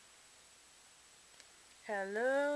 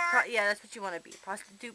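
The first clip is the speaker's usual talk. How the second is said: words squeezed out through laughter, louder; laughing; 5 dB louder than usual. Real, not acted. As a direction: talk while still cracking up. Still laughing after the joke.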